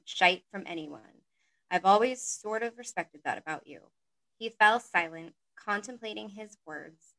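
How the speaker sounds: measured audiobook reading, phrase by phrase; story narration. A narrator's reading. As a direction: read a romance story aloud, letting sentence ends fall away. Reads a story aloud.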